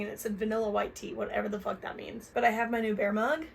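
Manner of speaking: late-night murmur by candlelight; hushed voice. Real, not acted. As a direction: keep it hushed so nobody wakes.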